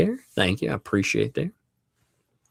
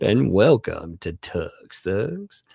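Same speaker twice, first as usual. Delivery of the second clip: lightly voiced, drawn-out announcer; slow show-host welcome, lightly put on; a hint of ring announcer, words stretched; slower than usual. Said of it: "I like doing my announcer voice".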